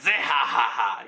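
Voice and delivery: mock belly laugh, "zehahaha"; Blackbeard. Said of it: "And Blackbeard's like".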